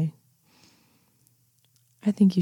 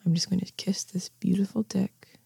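soft whisper; 5 dB quieter than usual. Acted. Teasing his excitement, softly whispered. Seduction roleplay to listener.

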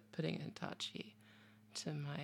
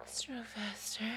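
whispering; 5 semitones higher than usual. Real, not acted. Intimate whispered instructions.

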